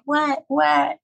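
high-pitched "what", mildly exasperated; retold startled response. Crying mother answers her daughter's call, startled.

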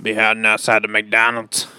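creepy threat to whisper. Acted.

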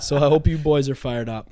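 loud laughing hype shout; frat bro. Real, not acted. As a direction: yell it through a laugh.

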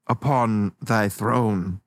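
slow grand mock formality; mock ceremonial. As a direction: intone it like a ceremony.

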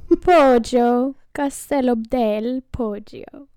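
put-on slow Italian accent on Castello del Poggio; mock Italian accent for the wine name. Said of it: "a little Italian".

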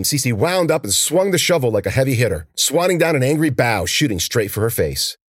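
usual speaking voice

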